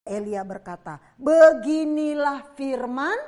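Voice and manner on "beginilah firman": slow, loud prophetic declaration; solemn proclamation. Acted. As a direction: announce God's word with weight. Elijah proclaims to the king.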